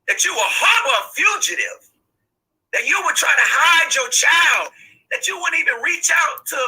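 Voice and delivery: shouting in outrage at the parents; angry shout. Real, not acted. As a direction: shout the blame at them. Mother berates parents hiding children.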